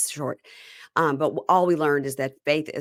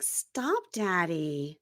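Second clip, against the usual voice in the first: put-on baby voice with vocal fry; 5 dB quieter, much slower than usual. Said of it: "It's baby with vocal fry".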